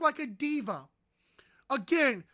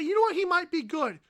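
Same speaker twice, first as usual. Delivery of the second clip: sarcastic pundit voice; mock the analyst's turnaround; mocking imitation. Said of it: "you cannot say".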